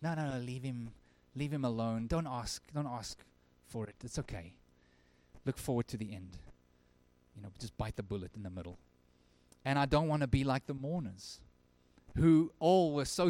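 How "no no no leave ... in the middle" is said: soft, lower, falsely humble voice; pseudo humble. Retold or imitated. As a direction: hush them like a fake-modest friend. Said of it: "pseudo humble".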